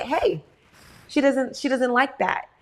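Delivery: firm protective "Hey, she doesn't like that", stress on "she"; firm warning. Retold or imitated. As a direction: step in and shield your child, firmly. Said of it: "I said".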